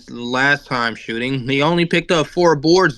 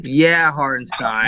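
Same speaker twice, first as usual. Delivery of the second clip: Cat voice; 3 semitones lower, slower than usual. Pretend. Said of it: "Do the Cat voice".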